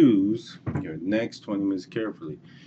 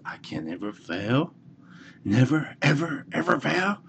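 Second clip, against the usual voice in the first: put-on high, proud child's voice rising on fail; a boy swearing he'll never fail; kid's vow; 7 semitones higher than usual. Little boy tells himself he can never fail, high and proud. Little kid declares new belief.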